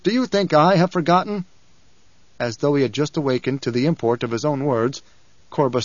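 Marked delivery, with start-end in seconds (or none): 0.0-1.4 higher-pitched, heated challenge; angry snap. A narrator's reading. Lord rebuking his advisor, snapped angrily. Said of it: "Paul snapped".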